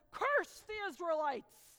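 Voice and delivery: loud, slow royal command; king's command. Acted. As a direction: order it like a king. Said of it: "and he says".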